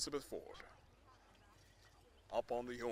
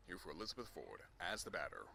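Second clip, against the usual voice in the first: soft commentary; 4 semitones lower, 5 dB quieter than usual. Acted. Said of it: "speaking kind of a little bit softer".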